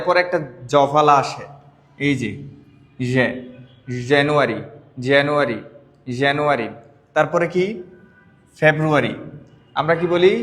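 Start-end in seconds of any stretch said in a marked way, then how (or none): 4.1-6.7 জানুয়ারি said as "janu-ari" with a clear j; correct pronunciation. Shown as a demonstration. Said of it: "এই যে দেখেন".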